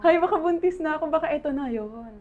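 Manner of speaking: giddy hopeful wife; hopeful excitement. Retold or imitated. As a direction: gasp it out like the test might be positive. Hopeful wife imagining pregnancy.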